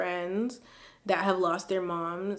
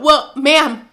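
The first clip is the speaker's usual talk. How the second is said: much louder and higher, fast, tearful protest; crying outburst; 8 semitones higher, 14 dB louder than usual. Real, not acted. Vlogger wailing at the email's sender through tears. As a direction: wail it at her, half laughing.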